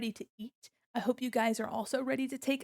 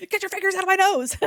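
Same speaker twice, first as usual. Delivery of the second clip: high, loud, fast mock shout; hammed-up yell, laughing right after; 9 semitones higher, 10 dB louder, faster than usual. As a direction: bark it at the pokers in playful outrage. Chat pokes avatar's nose.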